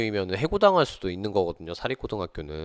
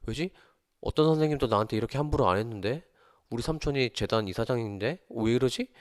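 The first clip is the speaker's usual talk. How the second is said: higher, puzzled questioning; retold bewilderment; 3 semitones higher than usual. Administrator thrown by a teacher daring to confront him, flustered. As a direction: act out a flustered, disbelieving administrator. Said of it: "행정실장님도 당황했어요".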